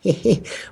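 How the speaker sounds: high, cheeky little mimicked giggle. Podcaster imitating Anders' cheeky grin, cheeky giggle. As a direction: imitate a chubby pal's cheeky chuckle. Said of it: "like, cheeky grin that Anders does".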